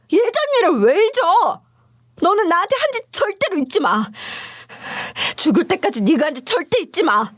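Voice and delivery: a wronged ex-wife's mild outburst; rising fury. Acted. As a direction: hurl it at him. Narrator raging at ex.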